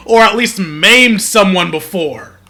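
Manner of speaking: loud, outraged disbelief; outraged yelling. Real, not acted. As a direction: yell it in furious disbelief. Outraged rant at game character.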